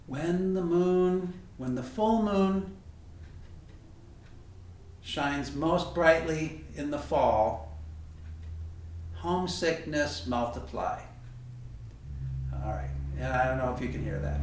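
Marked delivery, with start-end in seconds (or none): 0.1-11.0 slow, solemn proverb recital; recited proverb. Shown as a demonstration. Teacher reciting an ancient Chinese proverb to students, slow and solemn. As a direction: intone it like an old saying. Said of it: "Our ancient Chinese and very sentimental proverb".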